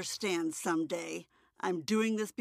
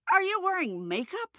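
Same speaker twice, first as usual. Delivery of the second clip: sharp, high accusing question; angry; 12 semitones higher than usual. Acted. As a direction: snap the question at her. Mother interrogates her daughter.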